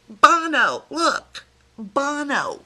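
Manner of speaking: high, loud excited squeal of the name. Real, not acted. Vlogger thrilled to show Miss Jill her idol, excited squeal.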